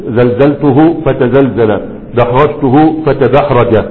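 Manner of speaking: teacher drilling pairs slowly; patient slow classroom drill; slow dictation. Shown as a demonstration. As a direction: spell each pair out at half speed. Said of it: "يبقى تقول ايه؟".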